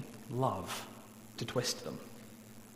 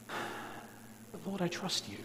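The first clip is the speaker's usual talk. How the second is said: whisper; 5 semitones higher, 9 dB quieter, much slower than usual. Acted. Prayer of lament, voiced.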